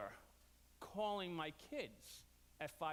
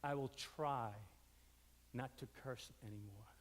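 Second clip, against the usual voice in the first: meek apology; 9 semitones lower, 7 dB quieter than usual. Retold or imitated. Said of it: "he said".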